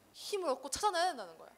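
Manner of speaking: ordinary delivery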